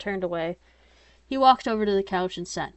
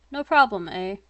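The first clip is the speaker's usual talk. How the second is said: Canadian accent; 5 dB louder than usual. Real, not acted. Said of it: "sounds like I'm trying to do a very terrible Canadian accent".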